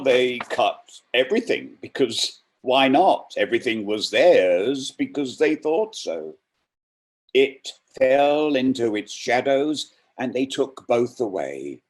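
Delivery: dramatic poetry reading; poem reading. Acted. Reader performing Merwin's The Last One with weight. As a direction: read it with rising menace and weight.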